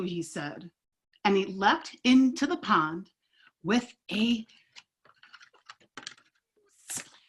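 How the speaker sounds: lively read-aloud with paced character lines; storybook read-aloud. Acted. Teacher reading a picture book to kids, animated. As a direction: tell the story to a circle of kids.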